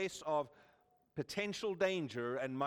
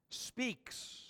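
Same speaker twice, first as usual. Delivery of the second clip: whispered; 6 semitones higher, 5 dB quieter than usual. Acted. God speaks to Abram.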